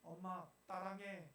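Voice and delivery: put-on 따랑해 lisped like a small child, slowly; slushy sh for s. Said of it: "혀가 짧아가지고 발음 안 되는데".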